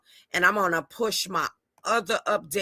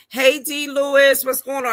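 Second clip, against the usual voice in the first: excited greeting; 7 semitones higher, 5 dB louder than usual. Real, not acted. Greeting a viewer on live.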